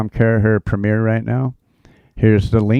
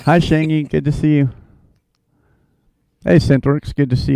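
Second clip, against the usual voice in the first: higher, louder, cheerful hello; loud greeting; 7 semitones higher, 5 dB louder than usual. Real, not acted. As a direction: call out the hello across the room. Repeats the greeting to a viewer.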